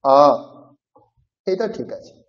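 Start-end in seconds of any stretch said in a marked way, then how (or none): 0.0-0.2 আ clipped short, under a second; brief short-vowel আ; short vowel demo. Shown as a demonstration. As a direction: give আ a quick short sound. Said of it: "সেই সময়ের মধ্যে আপনাকে উচ্চারণ করতে হবে".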